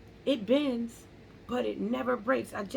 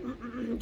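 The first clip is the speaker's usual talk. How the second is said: small mock coughs in the throat; imitated throat-clearing; 5 dB quieter than usual. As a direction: mimic trying to clear a scratchy throat. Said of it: "I was sitting there coughing".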